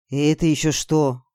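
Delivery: slow, subdued question; voice sunk. Acted. Girl staring at the monster, voice sunk. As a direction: ask it slowly, voice gone. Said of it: "севшим голосом спросила я".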